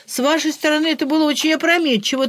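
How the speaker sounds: nasal, nose held shut, quick; with a broken nose. A narrator's reading. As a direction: talk through a pinched bleeding nose. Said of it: "снова загундосил Ляпсус".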